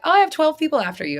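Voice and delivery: quick, high, excited psychic friend; 1 mock psychic. To the speaker, psychic friend brags in a quick, high voice. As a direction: rattle it off breathless and high. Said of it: "she's like".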